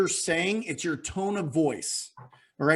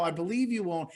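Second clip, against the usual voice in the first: gentle, lowered-key \"I believe you own\"; softened up. Shown as a demonstration. Coach telling a caller to soften the line, gentle. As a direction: ease it in gently. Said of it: "Soften it up".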